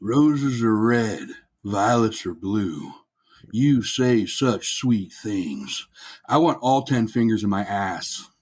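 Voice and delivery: slow, deadpan poem reading; Crusader voice. Acted. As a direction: recite slowly like a mock ballad. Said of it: "read it in my Crusader voice".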